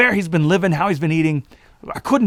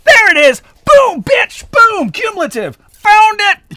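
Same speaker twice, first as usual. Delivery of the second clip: much higher, louder victory shouts; triumphant cheering; 7 dB louder, slower than usual. Real, not acted. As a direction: crow it like you just won. Celebrating saying the word right.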